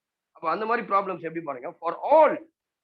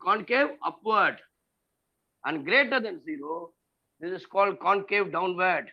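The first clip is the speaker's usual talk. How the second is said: slow dictation; much slower than usual. Shown as a demonstration. Dictating a definition.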